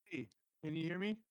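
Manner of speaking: muffled underwater mic sound; talking through a bad, underwater-sounding line. Real, not acted. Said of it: "It sounds like you're underwater too".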